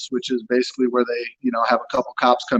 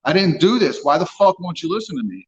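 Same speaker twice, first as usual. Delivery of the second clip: higher, frustrated mock outburst, retelling; retold anger; 5 semitones higher than usual. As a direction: replay the moment you lost your temper, a bit higher. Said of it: "you finally get mad and you're like".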